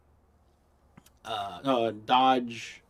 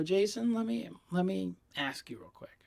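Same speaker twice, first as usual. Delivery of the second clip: hushed ask; 8 semitones higher, 5 dB quieter than usual. Retold or imitated. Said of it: "I go".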